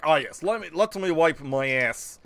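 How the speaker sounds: slow, low mock foreign-villain accent; drawling, badly faked villain accent; put-on foreign accent. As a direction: gloat like a cartoon enemy in a fake foreign accent. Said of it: "I hate doing that voice".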